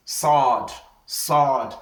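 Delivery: "sword" heavy and emphatic, from the throat; emphatic letter. Shown as a demonstration. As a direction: say "sword" as a heavy Arabic letter, long vowel. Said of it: "is something that is emphatic".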